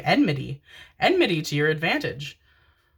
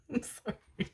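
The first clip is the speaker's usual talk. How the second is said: whispered sorry; 7 semitones higher, 12 dB quieter than usual. Real, not acted. Whispered apology after laughing.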